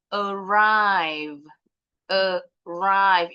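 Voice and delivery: Arrive with a loud, long RIVE; second-syllable stress. Shown as a demonstration. Teacher models stress for the class, Arrive stressed on RIVE. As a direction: say a-RRIVE, brief first syllable, strong drawn-out second. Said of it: "Penekanannya di suku kata kedua".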